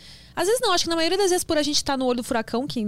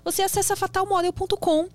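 upbeat sponsor pitch, a bit higher; ad read; 3 semitones higher than usual. Acted. Host reading the sponsor message to viewers, upbeat ad voice. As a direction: sell the sponsor to the audience.

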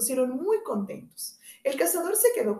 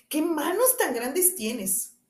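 put-on high, slow, wide-eyed child's question; wondering little girl; 6 semitones higher, much slower than usual. Caperucita asks her grandmother, slow and amazed. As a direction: ask slowly, amazed at the ears.

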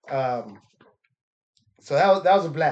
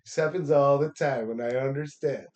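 mock polite reassurance. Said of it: "I just said".

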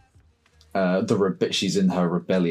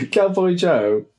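higher, louder name call; Cowboy Joe; 11 semitones higher, 5 dB louder, slower than usual. Pretend. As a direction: announce the name like a cartoon hero. Says the name in a put-on voice.

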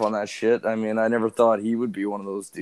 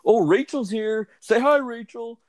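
friend's voice; 11 semitones higher, slower than usual. Retold or imitated. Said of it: "he was like".

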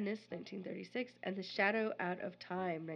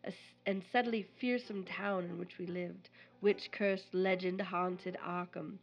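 dramatic reading. Acted. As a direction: read it like a gothic tale. Reads Lovecraft passage.

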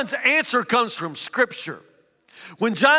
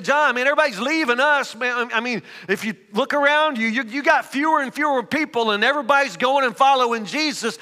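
anxious pleading; 4 semitones higher than usual. Acted. Worried followers plead.

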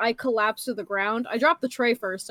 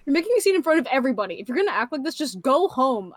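mild mock yell, starting in a rush; retold yelling; faster than usual. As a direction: imitate a manager telling someone off, without really shouting. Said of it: "she's, like, yelling at me".

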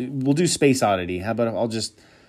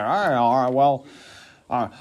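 Impression of a singer. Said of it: "It's exactly how he sounds".

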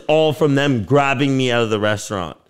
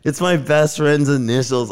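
higher, heated explaining to the cop; exasperated rebuttal; 5 semitones higher than usual. Retold or imitated. Telling how he corrected the cop about his tattoo, heated and higher. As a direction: set him straight, fed up.

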